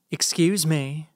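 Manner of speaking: slow, drawn-out Southern "Excuse me"; southern drawl. Acted. Snooty older woman to the rude young man, in a slow Southern drawl. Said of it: "she says with a southern drawl".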